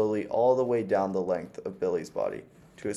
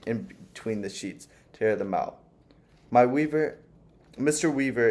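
put-on sweet old landlady. Old landlady fussing over her new lodger, lightly sweet. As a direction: coo at the young guest like a fussy old lady.

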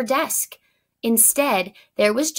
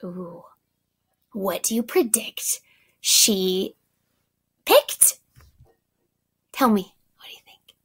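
whispered question. Real, not acted. Teacher asks the children to predict, in a whisper. Teacher aside to listening kids.

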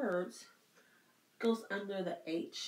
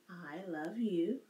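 slow signing demo; 3 semitones lower, slower than usual. Shown as a demonstration. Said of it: "you can also do, "I love you," like this".

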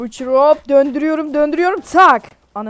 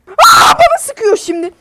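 mock crying; 9 semitones higher, 8 dB louder than usual. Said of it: "Ağlayacağım şimdi".

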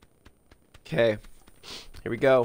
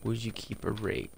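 whispering; 7 dB quieter than usual. Pretend. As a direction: breathe it so nobody hears. Sneaking in the game.

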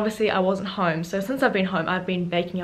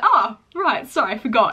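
imitating mum; 4 dB louder than usual. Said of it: "she's like".

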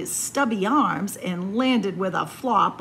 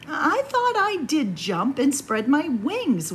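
protesting; 5 semitones higher than usual. Acted. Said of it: "Warren protested".

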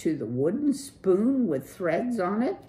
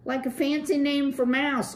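surfer dude; 11 semitones higher, 5 dB louder, faster than usual. Acted. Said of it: "Clutch said".

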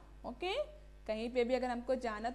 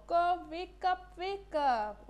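crow calling; 4 semitones higher, slower than usual. Retold or imitated. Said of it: "says the crow".

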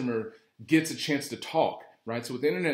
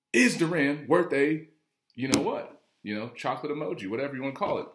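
pressing boss; 4 semitones higher, 4 dB louder than usual. Retold or imitated. Boss pressing the manager about the trainer, louder and higher. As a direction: lean on each word to pin the manager down. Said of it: "And so the guy said".

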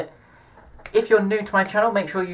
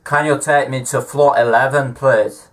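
attempted Scottish accent; 4 dB louder than usual. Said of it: "me trying to do a Scottish accent".

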